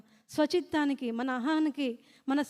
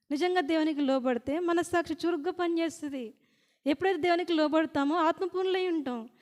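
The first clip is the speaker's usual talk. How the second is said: forceful preaching; 5 dB louder than usual. Real, not acted.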